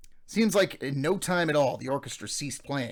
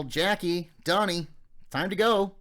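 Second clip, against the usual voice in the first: put-on calling the boys, rising higher and louder to the end; mother calling; 5 semitones higher, 4 dB louder, slower than usual. Mother calls her sons to leave the dance, loud call. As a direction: call the kids home across the hall. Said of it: "I heard my mother call".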